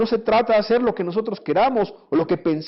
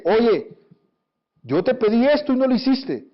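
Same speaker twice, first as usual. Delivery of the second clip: annoyed wife; 5 semitones higher than usual. Retold or imitated. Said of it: "cuando está molesta, te dice".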